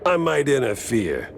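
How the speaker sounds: indignant retort. Acted. Detective retorts angrily to hitman.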